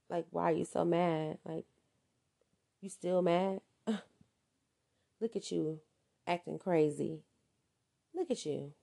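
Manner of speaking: soft, slow, laughing mockery; mocking taunt. Narcissist mocking the partner they provoked, softly taunting. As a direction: needle them with a snicker.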